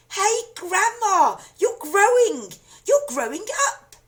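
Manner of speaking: put-on high, loud, slow alarmed boy's shout. A narrator's reading. Boy startled as grandma grows, loud shout. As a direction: yell up at her in alarm. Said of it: "George gave a jump and shouted".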